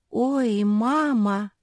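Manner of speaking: high little squeal; squeaking. A narrator's reading. Frightened Jozi squealing for mama, high squeak. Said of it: "пропищала Жози".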